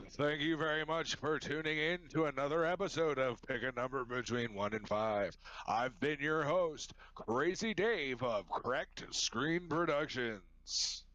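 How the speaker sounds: lightly voiced TV host outro; game show host voice. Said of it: "do my game show host voice".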